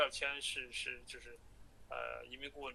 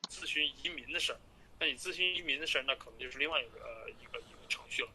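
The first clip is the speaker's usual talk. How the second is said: phone call. Real, not acted. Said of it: "继续听".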